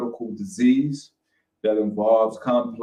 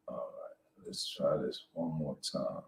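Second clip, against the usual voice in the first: muttered under breath; 6 semitones lower, 13 dB quieter than usual. Real, not acted. Struggling with the stream software.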